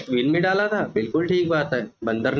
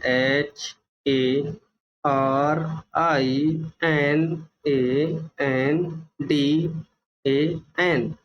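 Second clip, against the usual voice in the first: slow letter-by-letter spelling; much slower than usual. Shown as a demonstration. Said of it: "देखिए मेरा नाम है".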